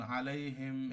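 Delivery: আলাইহিম with a one-count nasal hum; demo recitation. Shown as a demonstration. Teacher demonstrating আলাইহিম to students, slow and measured. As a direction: recite আলাইহিম slowly, ghunna held one beat. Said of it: "এখানে এক হারাকা গুন্না".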